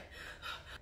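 soft, voiceless panicky exhale; panicked breath. Retold or imitated. Recalling panic at the front desk, mimed anxious breath. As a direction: act out a quick panicked breath, quietly. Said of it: "like, panicking. I was like".

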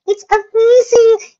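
high, loud gushing delight; excited. Acted. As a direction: gush over it with big delight. Candlestick gushing over the hall.

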